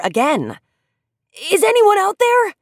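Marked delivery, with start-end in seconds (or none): 1.5-2.5 shouting. A narrator's reading. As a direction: call out, hoping anyone hears. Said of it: "he shouted".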